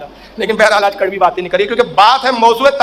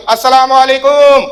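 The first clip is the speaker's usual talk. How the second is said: drawn-out salaam; 3 semitones higher, 5 dB louder, much slower than usual. Retold or imitated. Cleric's slow drawn-out salaam.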